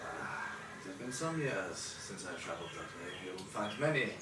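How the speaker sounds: put-on lightly accented, hesitant old fisherman. Old fisherman tells travellers where he trades, halting and mild. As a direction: ramble haltingly as a humble river trader.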